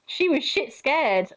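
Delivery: amused laughing narration; laughing through the words. Real, not acted. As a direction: giggle out the words slowly. Laughing while telling.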